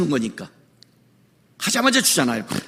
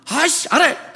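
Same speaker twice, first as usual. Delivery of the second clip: put-on annoyed child; 5 semitones higher, slower than usual. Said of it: "그러면".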